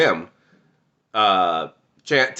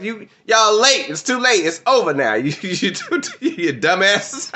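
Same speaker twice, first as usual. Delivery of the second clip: mocking Peacemaker; 11 semitones higher than usual. Peacemaker taunting the late Justice League, high mocking voice. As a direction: gloat at the latecomers like Peacemaker. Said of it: "And Peacemaker like".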